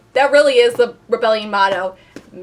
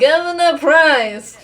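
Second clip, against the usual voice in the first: slow, higher, nasal villain drawl; nasal villain Governor Price voice; 6 semitones higher, 4 dB louder, much slower than usual. Retold or imitated. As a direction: ham up the nasal bad guy. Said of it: "nasally evil villain voice I've ever heard".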